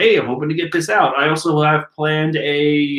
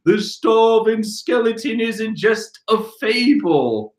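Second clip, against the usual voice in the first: slow, slightly raised dramatic reading; quoted ninja line; 6 semitones higher than usual. Acted. The ninjas announce the legend, slow and dramatic. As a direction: intone the legend with mock dread. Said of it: "all the ninjas like".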